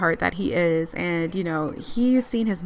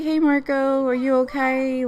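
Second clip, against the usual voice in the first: high-pitched, tentative greeting; concerned check-in; 5 semitones higher than usual. Acted. Mom checking on upset dad, high concerned voice. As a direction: lift the voice high for a caring question.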